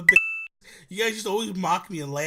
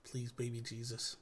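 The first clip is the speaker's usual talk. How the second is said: mock exasperated plea; 8 semitones lower, 16 dB quieter, much slower than usual. Exasperated plea before take.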